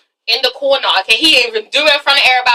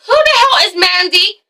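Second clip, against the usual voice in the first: higher-pitched indignant outburst; indignant demand; 6 semitones higher, 4 dB louder than usual. Acted. Girlfriend confronting Derek about Mandy, indignant demand.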